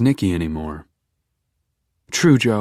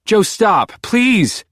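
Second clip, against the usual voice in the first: much higher, louder desperate plea; Beck pleading; 13 semitones higher, 4 dB louder, much slower than usual. A narrator's reading. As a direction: beg him to stop. Beck begging him to stop.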